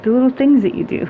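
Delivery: lightly voiced friend pressing the point; imitating Lee. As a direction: repeat it back in her quick high voice. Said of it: "she's like".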